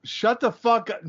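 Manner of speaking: high-pitched, protesting comeback; indignant retort. Real, not acted. Joke teller rebuffing a friend's guess, indignant.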